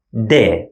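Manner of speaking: de as a normal English d; plain d sound; Arabic d. Shown as a demonstration. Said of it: "we pronounce it de".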